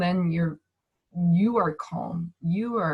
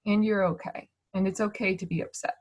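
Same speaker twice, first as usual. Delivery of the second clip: calm acknowledging. Shown as a demonstration.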